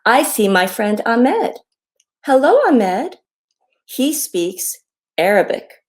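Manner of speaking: slow down and sing out each greeting; reading to children. A narrator's reading. Author reads her hello book to children, friendly read-aloud.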